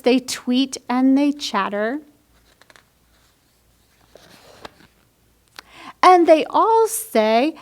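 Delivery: put-on lively picture-book read-aloud for children; bright storybook narration; story reading. A narrator's reading. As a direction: read it like storytime for little ones.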